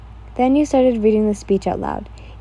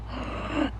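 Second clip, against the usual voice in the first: dramatic gasp; 11 dB quieter than usual. A narrator's reading. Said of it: "you let out a gasp".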